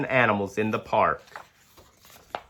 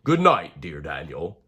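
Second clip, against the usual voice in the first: lower, calm wise owl; 4 semitones lower than usual. Acted. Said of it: "she whispers".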